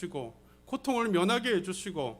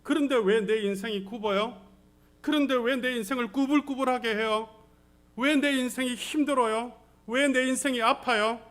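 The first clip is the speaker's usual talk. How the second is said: acted protest, higher and louder; crying out to God; 3 semitones higher, 5 dB louder than usual. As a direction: demand why, building in force to God. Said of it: "하나님 앞에 울부짖을 때가". (하나님께 울부짖듯 따지는 목소리)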